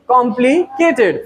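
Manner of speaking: कॉम्प्लिकेटेड in four distinct beats, com-pli-ke-ted; measured com-pli-ke-ted for कॉम्प्लिकेटेड; four syllables. Shown as a demonstration. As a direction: lightly separate the four sounds of कॉम्प्लिकेटेड. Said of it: "four syllabic word हो गया".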